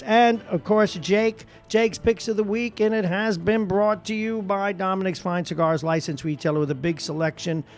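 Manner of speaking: radio announcer plugging a sponsor; sponsor read. Acted. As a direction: sell it like a station announcer.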